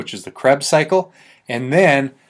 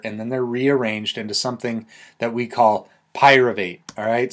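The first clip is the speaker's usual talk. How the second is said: ordinary talk, nothing marked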